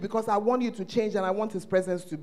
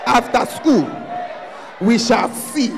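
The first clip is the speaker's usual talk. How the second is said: mocking bully shout; 4 dB louder, slower than usual. Schoolyard bully threat, repeated.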